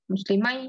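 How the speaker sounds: মুসলিমাই ending in "mai", no n; same ai ending. Shown as a demonstration. Teacher reads the same form below, ai ending. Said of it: "নিচেরটা same".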